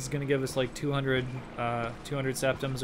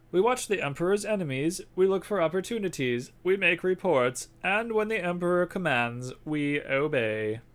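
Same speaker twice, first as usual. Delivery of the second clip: put-on louder, raised old spy boss; spymaster voice; 6 semitones higher, 5 dB louder than usual. Spymaster asking the courier for the package, gruff. Reads NPC dialogue in character.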